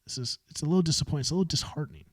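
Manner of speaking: a hint of a disheartened sigh; sighing disappointment. Shown as a demonstration. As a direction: breathe it out, let down. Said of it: "that sigh".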